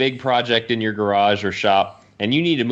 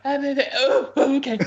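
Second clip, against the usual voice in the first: wife startled. Retold or imitated. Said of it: "she's like".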